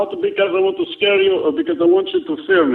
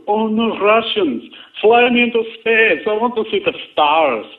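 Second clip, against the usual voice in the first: lightly mocked plea in a Russian accent; mock American pleading; 3 semitones higher than usual. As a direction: mimic your rival begging, keeping the Russian accent. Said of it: "That is what you'll be saying".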